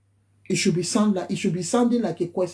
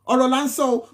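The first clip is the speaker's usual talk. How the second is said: mock shout; 4 semitones higher, 3 dB louder than usual. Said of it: "we'll be shouting".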